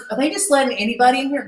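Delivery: mock snooty complaint. Wrestling star complaining about a newcomer, snooty. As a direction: imitate a rude star huffing about newcomers. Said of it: "She's so rude".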